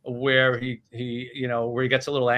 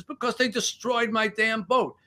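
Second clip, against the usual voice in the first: high-pitched mock outrage; indignant retort; 9 semitones higher than usual. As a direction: play an aggrieved yacht owner, voice pitched up. Billionaire's outraged retort to God.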